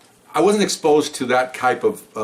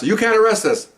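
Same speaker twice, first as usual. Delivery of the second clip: much higher, mock indignant protest; imitating protesting woman; 12 semitones higher, 4 dB louder than usual. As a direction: squeal her protest up high.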